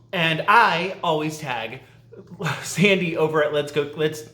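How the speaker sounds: breathless, tripping over words; talking too fast, winded; out of breath. Real, not acted. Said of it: "I'm getting out of breath".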